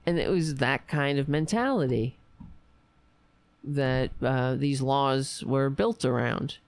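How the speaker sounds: strained, tired voice fading; voice giving out. Real, not acted. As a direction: voice wearing out mid-sentence. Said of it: "I'm losing my voice".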